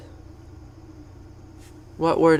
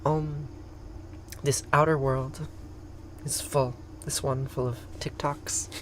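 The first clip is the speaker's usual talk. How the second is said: spoken prayer; 10 dB quieter, slower than usual. Acted. Reciting the prayer of fullness in English, measured prayer. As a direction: recite softly with pauses between phrases.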